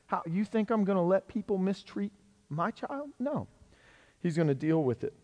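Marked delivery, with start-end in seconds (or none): 0.1-3.5 incredulous question, pitch climbing at the end; soft-voiced disbelief rising into a high refusal; acted protective indignation. God as parent over a mistreated child, indignant disbelief.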